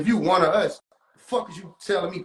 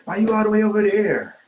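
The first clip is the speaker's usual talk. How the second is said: a mock needling voice, a touch louder with a laugh; hammed-up teasing impression with a laugh; mocking whiny imitation; 5 dB louder than usual. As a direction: tease them the way they sound. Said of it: "That's how y'all niggas sound to me".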